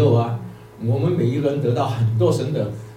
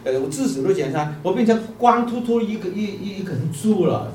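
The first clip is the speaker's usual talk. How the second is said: mock wail, pitched up; tearful protest; 6 semitones higher than usual. Bamboo mourns being stripped bare to the Lord, mildly tearful protest. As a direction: lament as the bamboo, higher but without real sobs. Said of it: "这个猪就哭了".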